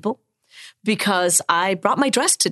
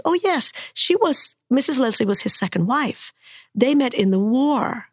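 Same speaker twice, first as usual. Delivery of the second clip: a higher, lightly voiced eager daughter; 4 semitones higher than usual. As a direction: answer brightly as Mr Leslie's daughter. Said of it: "And I said".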